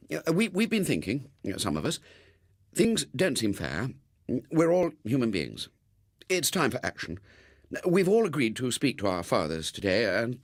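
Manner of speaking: put-on a boy fumbling through a rehearsed speech; hesitant schoolboy. Robert's hesitant speech to father.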